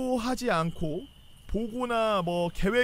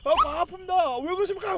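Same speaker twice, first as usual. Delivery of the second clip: retold yell; 8 semitones higher than usual. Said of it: "소리 존나 질렀어".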